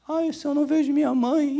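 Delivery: high whimpering put-on voice of a homesick wife; mock whiny crying wife. Preacher mocking a wife crying for her mother, high whine.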